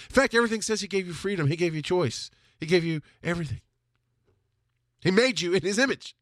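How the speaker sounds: ordinary talk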